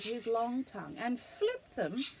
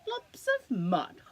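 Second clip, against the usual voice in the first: laughing disbelief, louder and higher; 5 semitones higher, 6 dB louder, slower than usual. Acted. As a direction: laugh the words out in amusement. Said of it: "Dingo laughed".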